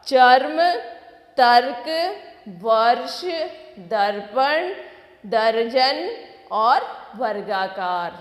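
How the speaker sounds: कर्म, फर्क, हर्ष repeated loud, each word on its own; loud repetition drill. Shown as a demonstration. Teacher repeats the word list for the children. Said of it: "फिर से दोहराएंगे".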